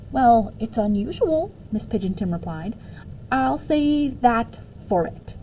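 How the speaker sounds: teacher politely hedges about the odd hat; dry understatement. Acted.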